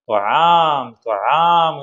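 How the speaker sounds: brief falling pretend cry; mock wailing. Teacher retelling what the bee heard, mock wailing. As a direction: lightly imitate a chick crying out for food. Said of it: "എന്ന് പറഞ്ഞ് നിലവിളിക്കുന്നത്".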